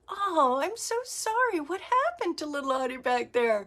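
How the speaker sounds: high, gentle sympathetic friend; compassionate. Retold or imitated. Friend on the phone consoling her inner child, mock gentle sympathy. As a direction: comfort a scared little one. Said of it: "And she was so compassionate".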